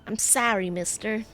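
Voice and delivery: mimicking the American accent on "I'm sorry, mister". Streamer echoing the boy in a light American accent. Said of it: "there's the American accent".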